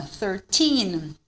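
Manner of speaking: put-on "thirteen" with a distinct "thir", then long TEEN; "thirteen" ending on a held n; clear THIR, stressed teen. Shown as a demonstration. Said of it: "se você começar já no thir".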